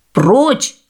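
крик. Acted. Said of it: "закричали птицы".

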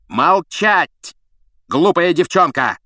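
put-on a high, loud snarl at the girl; furious. A narrator's reading. Snape silences Hermione, furious and loud. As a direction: cut her off in a rage. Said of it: "обезумел от злости".

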